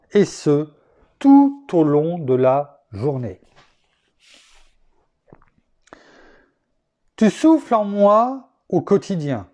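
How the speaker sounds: measured, declaimed prayer-poem; poem recited to God; devotional poem reading. Acted. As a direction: read it out as a solemn poem, with pauses. Reads prayer-poem of thanks.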